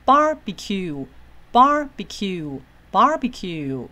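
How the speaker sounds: barbecue 的 bar 高而长，becue 往下落; 很慢地念 barbecue，开头响亮; 第一音节重音. Shown as a demonstration. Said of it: "弯比较高". (慢速示范 barbecue，前高后低)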